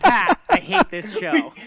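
high laughing outburst; laughing shout. Acted. Mock reversal of catchphrase, laughing.

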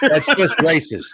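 laughing. Real, not acted.

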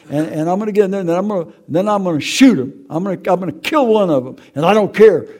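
a grieving man's revenge rant; retold vengeful rage. Grandfather telling God his revenge plan, rising anger. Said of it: "I said".

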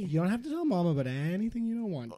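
creepy ghost voice. Acted. Ghost threatens boys.

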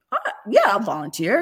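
lightly voiced reluctant husband, high hesitant start; husband volunteering. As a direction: imitate him half-heartedly offering to volunteer. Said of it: "Joe's like, he goes".

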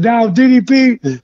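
lightly voiced starstruck officer; imitated friendly cop. Cop sending wrestler off, lightly imitated friendliness. Friendly cop's farewell advice, acted.

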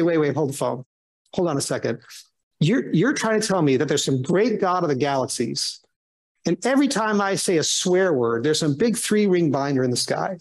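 mock-incredulous sceptic, mildly sarcastic. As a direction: push back with dry disbelief. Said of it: "I said those words kind of sarcastically".

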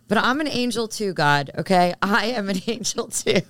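jokey indignant protest, laugh creeping in; playful mock protest. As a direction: insist in jest, breaking into a laugh. Mock plea to God, then laughs.

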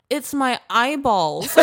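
put-on high, slow little-girl exclamation; mock child's voice breaking into laughter; young daughter. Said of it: "She goes".

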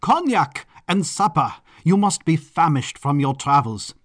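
grand, exuberant host's proclamation; flamboyant Baron. Acted. Baron promising supper and talk to his guests, flamboyant and exuberant. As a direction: announce the feast with a high flourish.

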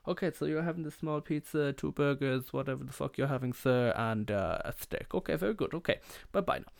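high, lilting cartoon waiter; Julio from The Simpsons. Waiter reading back the family's order, high cartoon lilt. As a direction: reel off the order, sign off in a high singsong. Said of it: "it was exactly how he sounded like".

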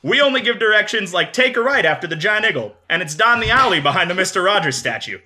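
put-on Pittsburgh accent, laughing through; playful yinzer pitch. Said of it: "I'm gonna do a Pittsburgh accent the whole time".

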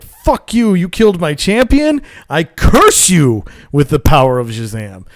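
put-on furious old wizard cursing; angry wizard. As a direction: curse him out with rage. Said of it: "the wizard Shazam is like".

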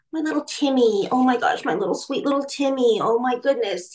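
a hint of a cooing mother; mild mock baby talk to a son; doting mother. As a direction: lightly mimic a doting mom. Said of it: "you know, that kind of thing".

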